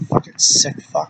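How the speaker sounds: breathy whispered curse under the breath; whispered insult. Real, not acted. Muttering at the thief who stole his underwear, whispered disgust. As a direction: hiss it out in a whisper.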